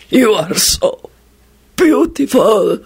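slow, lustful goblin rattle; deep rattling groan. A narrator's reading. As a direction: groan it adoringly, word by word. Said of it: "groaned suddenly in a deep and rattling voice".

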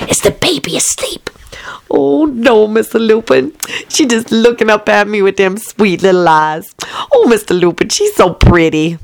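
whispery doting maid; Southern maid voice. Acted. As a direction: coo over the baby.

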